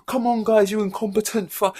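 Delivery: high, loud mock rage at the crew; mock angry rant. Driver berating his pit crew, high hammed-up shouting rant. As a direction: ham up a driver losing it at his team. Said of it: "berating them and being like".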